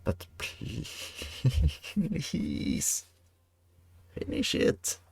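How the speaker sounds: breathy whispered French chef voice; pleading, hushed French accent. Pretend. Pleading with colonists in game.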